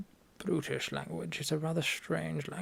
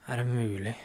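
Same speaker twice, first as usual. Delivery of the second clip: exasperated sigh; 3 semitones lower than usual. Shown as a demonstration. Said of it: "That's kind of a sigh of".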